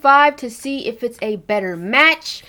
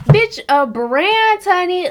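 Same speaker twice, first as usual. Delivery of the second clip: laughing, pitched way up and slow; laughing disbelief; 8 semitones higher, 6 dB louder, slower than usual. Real, not acted. Telling viewers a brand sent her foundation, laughing high. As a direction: squeal it through a laugh.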